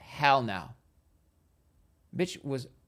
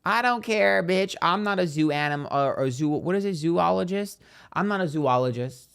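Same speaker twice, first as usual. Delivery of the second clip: indignant protest; 5 semitones higher, 5 dB louder than usual. Real, not acted. Refusing to handle animals.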